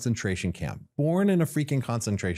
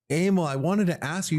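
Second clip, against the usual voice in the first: pleading ask; 9 semitones higher than usual. Retold or imitated. Asking Emil a third time.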